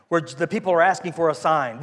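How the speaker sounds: usual speaking voice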